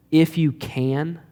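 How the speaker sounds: slow, understated sarcastic echo of his words; faintly sarcastic. Retold or imitated. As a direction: repeat it back slowly, a touch of sarcasm. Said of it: "It's almost a bit sarcastic".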